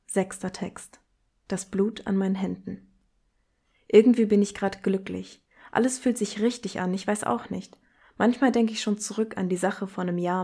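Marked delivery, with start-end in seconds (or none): 1.5-10.4 poetry reading. Acted. Host reading the sixth text to listeners, grave and measured.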